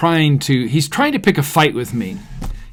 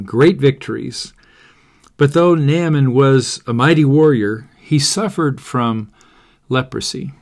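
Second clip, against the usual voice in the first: scripture reading. Acted. Preacher reading Second Kings to listeners, clear storytelling voice. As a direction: read the story to the group. Reads Bible story aloud.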